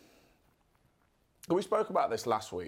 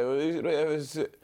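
lightly voiced muddled president; slow, halting and losing the thread; Joe Biden; slower than usual. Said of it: "Joe Biden. And he's gonna say".

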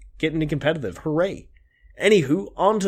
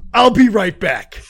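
high, loud, drawn-out exit; excited; 7 semitones higher, 8 dB louder, slower than usual. Acted. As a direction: dash off in excitement. Friend rushing off to buy.

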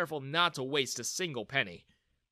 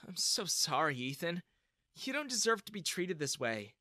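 sad; 3 semitones higher than usual. Acted. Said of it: "Bella turned to me with sad eyes".

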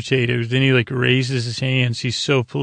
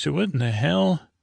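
higher-pitched, lightly acted disbelief; mock bafflement; 4 semitones higher than usual. Geordi sees something wrong on his screen, mock bafflement. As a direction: imitate a puzzled double take.

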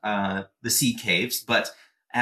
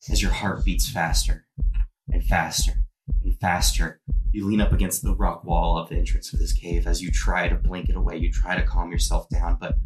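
louder, deliberate game master voice building dread; tense scene narration; 4 dB louder than usual. A narrator's reading. Game master tells a player his vision turns red, tense narration. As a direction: narrate a mounting panic with force.

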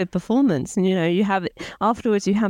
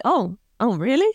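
mock surprise; 4 semitones higher than usual. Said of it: "Andy's really surprised at that moment".

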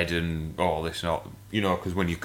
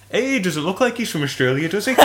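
higher, laughing through the quoted line; laughing quote; 10 semitones higher than usual. Retold or imitated. Quoting the old man to the audience, laughing. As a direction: retell it while giggling.

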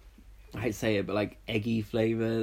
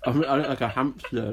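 laughing; 3 semitones higher than usual. Real, not acted. Laughing at own full cheeks.

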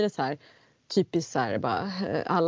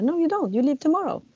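mimicking the priestess; 8 semitones higher, 3 dB louder than usual. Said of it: "Hon bara".

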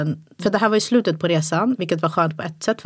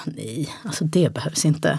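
slow, quiet brush-off; dismissive; 3 semitones lower, 4 dB quieter, slower than usual. Retold or imitated. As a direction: calmly wave it away. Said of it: "Jag bara". (långsamt och lågmält avfärdande)

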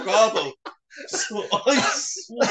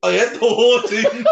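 giggling through the words; laughing; 5 dB louder than usual. Real, not acted. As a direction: laugh while you say it. Telling the Nutella story, laughing.

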